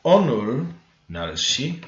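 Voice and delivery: "Onul nalshi" said slowly and deliberately; slow Korean "Onul nalshi"; careful pronunciation. Shown as a demonstration. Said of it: "That doesn't sound right".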